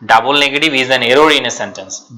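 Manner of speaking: slow, deliberate dictation of the rule. Shown as a demonstration. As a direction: spell it out slowly so they can write it down. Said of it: "আমরা কিছুক্ষণ আগে শিখে আসলাম".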